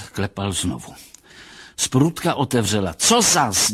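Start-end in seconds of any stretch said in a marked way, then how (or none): 2.9-3.7 higher, louder, put-out surprise; surprised. A narrator's reading. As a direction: burst out in wondering irritation. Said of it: "divila se". (podivení, hlasitěji a výš)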